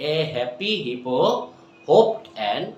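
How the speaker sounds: quick, light run-through; fast repeat. Shown as a demonstration. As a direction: speed it up on the repeat.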